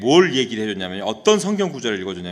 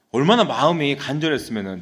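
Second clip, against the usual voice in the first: usual speaking voice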